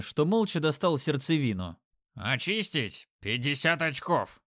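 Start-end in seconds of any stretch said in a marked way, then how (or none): 2.1-4.4 talking through the nose like an orc; bored nasal orc drone. Acted. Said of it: "прогундосил он". (гнусавый голос орка)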